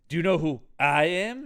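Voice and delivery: imitated doctor testing his patient; lightly acted movie scientist; questioning doctor. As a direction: quiz the patient, rising at the end. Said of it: "and he's just like".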